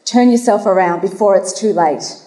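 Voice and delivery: lightly put-on Irish accent; amateur go at an Irish accent; attempted Irish accent. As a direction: read the sign out with a hint of Irish. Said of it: "try my best to do an Irish accent".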